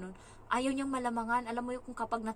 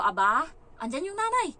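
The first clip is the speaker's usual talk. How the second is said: loud, raised indignant reproach; retold scolding; 6 semitones higher, 9 dB louder than usual. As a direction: scold the child in mock indignation. Acts out scolding the child. (malakas na kunwaring paninita)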